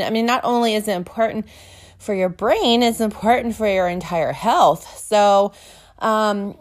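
breathless, panting between phrases; talking while still winded; out of breath. Real, not acted. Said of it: "I kinda sound out of breath".

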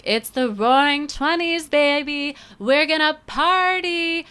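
high, hyped party voice; excited partier. Retold or imitated. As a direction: sell it like the night's just begun. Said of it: "one of those people who was like".

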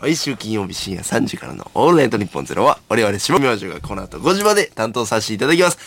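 blocked nose, stuffy voice; talking through a stuffed-up nose; nasal voice. Real, not acted. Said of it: "かなり鼻声ですね。".

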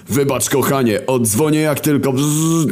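high, hurried apology trailing into static; Wojna's voice. Acted. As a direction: rush off the phone to your girlfriend. Wojna hangs up hastily. (wysoki, pospieszny głos Wojny)

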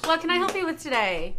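prim and proper phone greeting; lightly put-on polite call-centre agent; customer service voice. Shown as a demonstration. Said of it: "Very prim and proper".

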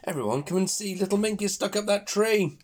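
high duck voice calling everyone; quacking duck. Acted. Duck calls everyone to see the stuck piglet, high quacky voice. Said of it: "Duck quacks".

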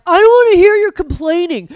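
loud, high, impatient imitation; imitating a fed-up partner, loud and high; mock irritation. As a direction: shout down the complainer, hammed up. Mimicking partner dismissing complaints.

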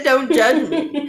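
slow pleading. Retold or imitated. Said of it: "I said".

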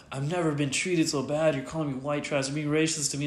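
lightly put-on aggrieved voice; retold indignation. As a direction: imitate him protesting how he's been treated. Retelling his aggrieved tangent.

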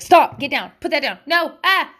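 mock yell of stop and get down; imitated parent shouts. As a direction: bark quick warnings like a frazzled parent. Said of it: "I just shout".

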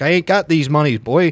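lightly put-on Mid-Atlantic dame; Mid-Atlantic old movie accent. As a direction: play an old-timey Mid-Atlantic movie character refusing. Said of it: "You're doing it".

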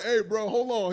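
loud high shouting in; mock loud call. Imitating the friend trying to intervene. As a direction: yell it across to stop him.

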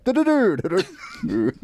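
high "do-do-do" jingle; mock radio jingle; DJ jingle noises. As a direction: imitate a radio DJ's sound sting. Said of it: "the D J's going".

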